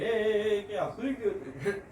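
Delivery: high, loud "hey, hey" easing off; imitated alarmed yell. Back-seat passenger alerting others to the sleeping driver, mock yell. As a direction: call out as if catching someone dozing. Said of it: "ઓલો રાડ પાડી દે".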